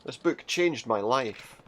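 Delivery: very slow, every word drawn out; slow dramatic. Acted. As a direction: drag out "changed" like a solemn testimony. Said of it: "you shouldn't say it like that".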